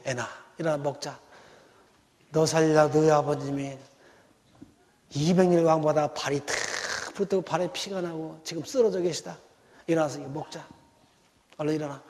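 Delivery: 조용하고 부드럽게 달래는 엄마; 아픈 아들을 살살 달래듯; gentle coaxing mother. Retold or imitated. Mother gently coaxing sick son. (아픈 외아들을 깨우는 엄마, 낮고 부드럽게 달래는 목소리)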